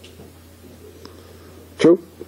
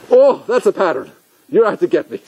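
higher-pitched accusing discovery; acted suspicious realization; 6 semitones higher than usual. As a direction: play a sudden "caught you" conclusion. Acts out suspicious inner voice.

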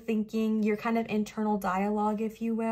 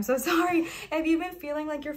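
embarrassed laugh; 5 semitones higher than usual. Real, not acted. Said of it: "I almost just started crying".

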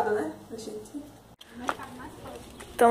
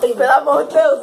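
pleading; 9 dB louder than usual. Real, not acted. Pepper burning.

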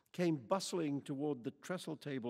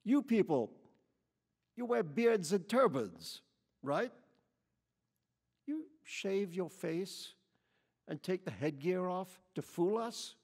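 loud, higher, slowed sneering voice; angry accusation; 6 semitones higher, 5 dB louder than usual. A narrator's reading. White lady accuses Quichotte of disguise, angrily. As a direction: lean on every suspicion. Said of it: "an angry finger pointing right at him".

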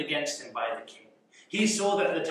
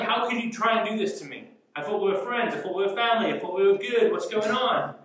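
mildly raised, indignant questioning; frustrated, angry; 4 semitones higher than usual. Acted. Confronting friends who played you for a fool, mock frustrated. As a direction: protest at a betrayal, pitch slightly up. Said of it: "You get frustrated. You get angry".

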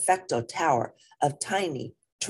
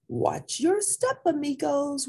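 high squeaky warning to the others; 12 semitones higher than usual. Acted. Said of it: "warned Poquito Tito".

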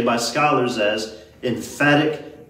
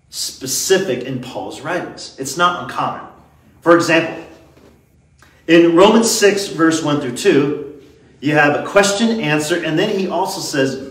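normal talking voice

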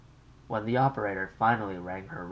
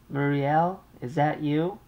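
higher, louder fretful mother's voice; an anxious mother on the line; 8 semitones higher, 7 dB louder than usual. Acted. Mother calls her daughter long-distance, fretful and raised.

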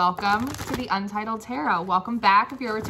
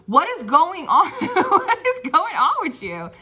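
higher laughing question; amused laughing question; 6 semitones higher than usual. Real, not acted. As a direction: laugh in disbelief. Laughing at the messages.

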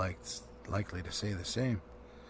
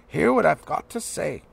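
flustered and injured; 6 semitones higher, 10 dB louder than usual. A narrator's reading. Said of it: "so flustered and injured".

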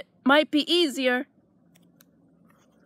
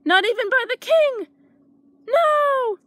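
roaring refusal; 9 semitones higher than usual. A narrator's reading. Dragon roaring that he won't be slippers. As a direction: bellow it out in fear. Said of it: "he roared".

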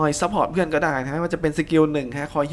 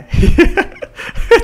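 high wheezing laugh; 8 dB louder than usual. Real, not acted. Laughing at teammate's story.

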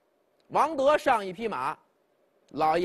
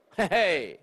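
cold laugh; 3 semitones lower than usual. Acted. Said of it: "一声的冷笑".

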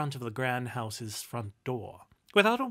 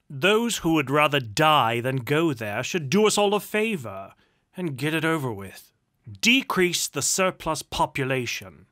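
loud, contemptuous tirade; harsh, imperious nobleman building in force; callous duke; 9 dB louder than usual. A narrator's reading. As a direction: rant with lordly scorn, hammering the words. Duke's tirade against the poor.

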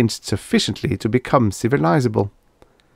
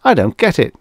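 higher, baffled disbelief; incredulous; 7 semitones higher, 4 dB louder than usual. A narrator's reading. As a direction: protest that it makes no sense to you. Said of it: "asked Bates incredulously".

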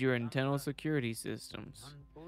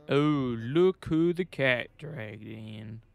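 slow, a bit louder put-on voice, lightly done; character voice; 3 dB louder, slower than usual. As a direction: tease the rookie cop with a mocking voice. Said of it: "why am I doing that voice?".

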